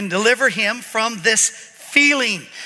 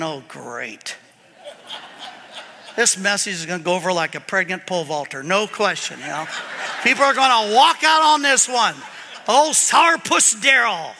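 mock gloomy grumble; 5 semitones lower than usual. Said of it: "I'm sitting right over there going".

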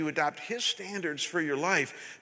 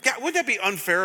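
building to a loud, slow, emphatic preach; near yelling; 5 semitones higher, 5 dB louder than usual. Real, not acted. Pastor to his congregation, passionate near-yell. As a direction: hold back a yell and lose. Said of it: "I'm not gonna yell".

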